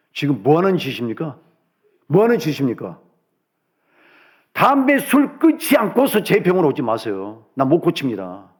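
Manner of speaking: imitating a doctor's stern telling-off; angry doctor, retold. Doctor refusing a patient who smokes and drinks, acted angry. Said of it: "막 화를 내더래요".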